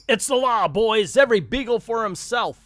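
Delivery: high, loud mock panic yell; retold scream. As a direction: shout it like fleeing crooks in a cartoon. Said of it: "The Bugle Boys scream".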